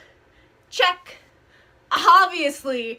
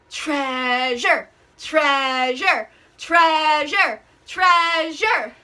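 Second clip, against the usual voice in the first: cheering; 3 dB louder, much slower than usual. Real, not acted. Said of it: "You gotta be a little more convincing".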